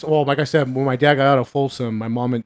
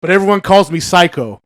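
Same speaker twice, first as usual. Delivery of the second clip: quoting Psycho; 3 semitones higher, 4 dB louder than usual. Retold or imitated. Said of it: "he goes".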